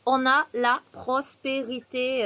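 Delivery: slowly, savouring "prospérité"; slow emphatic. Real, not acted. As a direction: draw out the words for emphasis. Repeats card, drawn out.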